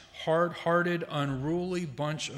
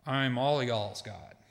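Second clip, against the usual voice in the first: Texan accent; 2 semitones lower than usual. Shown as a demonstration. Preacher jokingly translates Hebrew plural in a Texan accent. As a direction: tease the crowd with a mild Texan twang. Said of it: "you have to use Texan".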